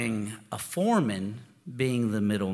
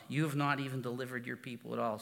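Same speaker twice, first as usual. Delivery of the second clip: softer and fast, a muttered echo of Moses; quieter, faster repeat; 6 dB quieter, faster than usual. Retold or imitated. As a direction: toss it off softly and quickly, like Moses under his breath. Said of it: "That's Moses talking to God".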